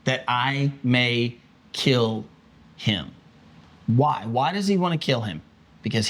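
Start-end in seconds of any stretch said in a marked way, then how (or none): 0.0-3.1 slow, deliberate threat; menacing order. Retold or imitated. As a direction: drag it out like a death sentence. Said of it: "He says".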